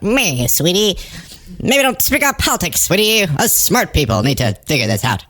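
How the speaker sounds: patronize her like a know-it-all host; condescending Laura Ingraham. Retold or imitated. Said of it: "Laura Ingraham was like".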